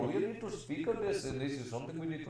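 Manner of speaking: mock Indian call-centre scammer; hammed-up Indian scam caller accent. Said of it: "Your Indian accent is fucking shit".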